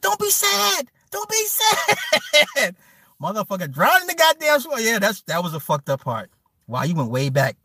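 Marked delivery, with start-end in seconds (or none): 0.0-2.8 mock consoling voice. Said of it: "he's like".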